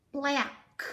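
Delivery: "black" said slowly with a hard K at the start; K sound in black. Shown as a demonstration. Teacher modelling the K sound in "black". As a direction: show the K in "black". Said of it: "sounds like a K".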